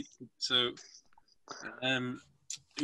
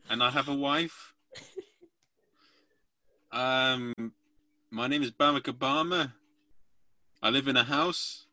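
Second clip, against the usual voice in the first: Obama impression. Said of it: "our best girl-group impression".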